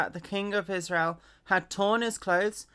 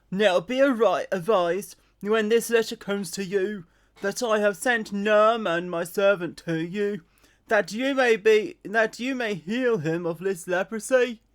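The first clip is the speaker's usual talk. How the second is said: letter voice. Acted. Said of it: "I don't know why I'm doing that voice".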